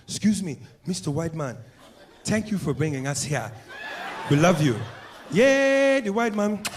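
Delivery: lightly voiced eager African accent; a hint of a grateful, fawning host. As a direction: gush over the visitor. Africans fawning over white man.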